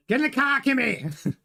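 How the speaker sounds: terrible put-on accent, pirate-like; Toto. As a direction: bark it in a botched pirate-like accent. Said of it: "it just sounds like a pirate".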